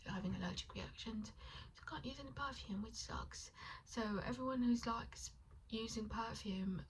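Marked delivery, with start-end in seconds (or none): 1.8-3.5 soft ASMR-style whisper. Real, not acted. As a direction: breathe the words out, barely voiced.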